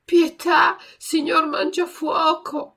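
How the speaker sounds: high, loud, slow plea; pleading. A narrator's reading. Pinocchio at the puppeteer's feet begs for his friend's life, pleading. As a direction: beg him tearfully. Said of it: "con voce supplichevole".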